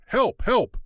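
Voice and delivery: high, loud cries of Help; shout for help. A narrator's reading. A man calls out for help, desperate shout. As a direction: yell Help as if fleeing danger. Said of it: "She heard a man shout".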